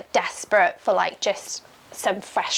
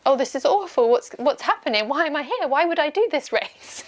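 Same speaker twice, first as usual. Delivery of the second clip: higher-pitched retold despair, without real tears; mock crying wail; 5 semitones higher than usual. Runner recalling her race meltdown, mock-tearful and higher. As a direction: imitate your own despairing meltdown, pitch climbing to the end. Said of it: "crying and being like".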